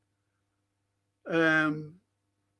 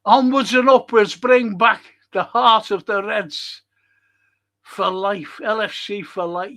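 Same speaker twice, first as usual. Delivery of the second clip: rousing read-out; 3 semitones higher, 6 dB louder than usual. Retold or imitated. Reading a fan's message aloud.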